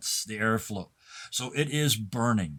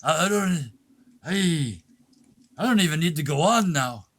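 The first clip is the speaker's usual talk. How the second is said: higher stammering, halting voice; flustered stammer; 3 semitones higher, 3 dB louder than usual. Acted. Actor stammering after being handed coins, higher and halting. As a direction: stumble over the start.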